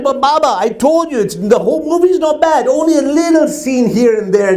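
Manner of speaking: pleading son. Acted. Son pleads with father over movie.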